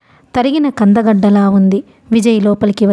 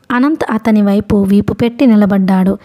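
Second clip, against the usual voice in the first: ordinary delivery, nothing marked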